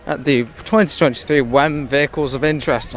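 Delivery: talking round a mouthful of food; words round a mouthful; mouth full. Real, not acted. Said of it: "I've got another wine going in my mouth".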